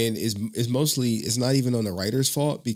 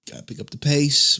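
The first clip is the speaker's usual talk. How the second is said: louder impatient push; mock impatient coach; mock pushy presenter note; 4 semitones higher, 5 dB louder than usual. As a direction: urge them to speed up. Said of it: "I just be like".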